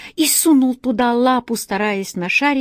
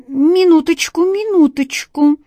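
loud, higher hasty exclamation; exclaiming; 8 semitones higher, 5 dB louder than usual. A narrator's reading. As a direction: cry out to stall for time. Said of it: "С необыкновенным самообладанием воскликнул он".

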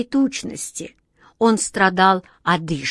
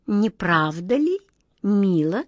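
coquettish; slower than usual. Acted. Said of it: "кокетливо заметила королева мышей".

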